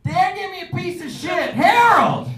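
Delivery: high, loud hammed-up yell; mock shout. Guest yells the news over to Harold, high and loud. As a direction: holler it across the room in mock outrage.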